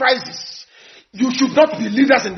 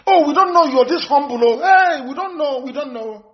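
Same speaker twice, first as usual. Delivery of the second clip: higher, gushing voice broken by laughs; amazed strangers; 3 semitones higher than usual. Retold or imitated. Strangers meeting Kanu, imitated higher and mock amazed. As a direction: gush like starstruck visitors. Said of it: "they say".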